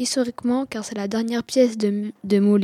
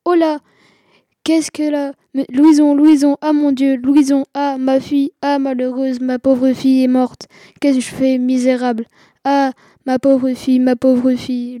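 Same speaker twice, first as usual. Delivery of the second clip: theatrical wail; 3 semitones higher, 6 dB louder than usual. Acted. Father lamenting loudly over his daughter's body on stage. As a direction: wail over your dead girl, full stage grief.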